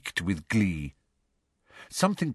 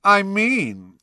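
louder, higher, pointedly overheard; slightly raised voice; 11 semitones higher, 5 dB louder than usual. A narrator's reading. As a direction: lift the voice to be overheard. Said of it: "raising his voice a little more".

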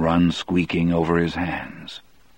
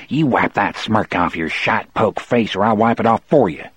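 growled threat; 3 semitones higher than usual. Acted. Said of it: "he growled".

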